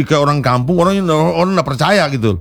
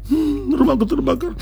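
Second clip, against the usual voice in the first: higher, softer mock-calm shrug; flat indifference; 9 semitones higher, 4 dB quieter than usual. Shown as a demonstration. Teacher shows the wrong, unfeeling way to mourn a house. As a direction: say it as if losing the house is nothing. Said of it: "Beda, nggak mungkin dia".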